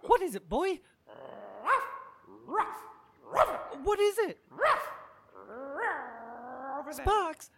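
loud call down to the dog. Acted. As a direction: call down into the hole. Calling down into hole.

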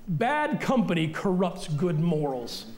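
slow, weighty reading of "Bad company corrupts good morals"; slow scripture reading. Shown as a demonstration. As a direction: read the verse out slowly. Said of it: "It's up on the screen".

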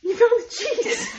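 high, sing-song sweetness; sweetly hide the outrage; a bright, too-nice reply to the cheese thief; mock-sweet calm. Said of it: "I didn't yell".

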